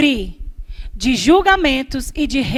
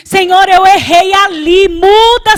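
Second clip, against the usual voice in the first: acted urgent plea; 3 semitones higher, 5 dB louder than usual. Acts out frank plea to God.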